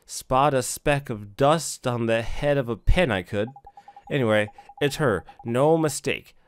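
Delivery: lightly voiced boastful little fairy; cocky sidekick. Drippy boasting to Ollie about fairy eyes, cocky.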